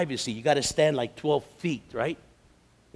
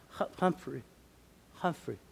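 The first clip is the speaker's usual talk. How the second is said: put-on feeble old man; 2 semitones higher, 6 dB quieter than usual. Old man repeats his name.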